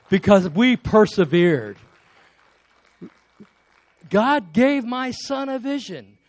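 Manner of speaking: loud, high-pitched preacher's proclamation; impassioned preaching. Real, not acted. Preacher urging congregation to trust God, real impassioned shout. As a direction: drive it home to the congregation at full voice. Preacher builds to rousing climax.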